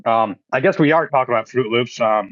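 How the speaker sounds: words round a bite of cereal; eating cereal. Real, not acted. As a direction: mouth half full, still chewing. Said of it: "'cause I'm eating a bowl of cereal right now".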